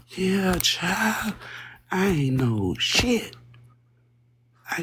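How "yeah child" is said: breathy whispered aside; half-voice it under your breath. Acted. Streamer whispers a resigned aside to chat.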